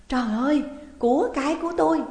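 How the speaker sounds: high, loud cry of shock; panicked cry. A narrator's reading. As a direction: cry out aghast at a loss. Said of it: "giọng bà ta thất thanh". (kêu thất thanh)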